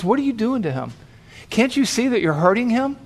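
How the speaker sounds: a little angry. Retold or imitated. Bystander challenging the paramedic, mild retold anger. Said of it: "he seemed a little bit angry".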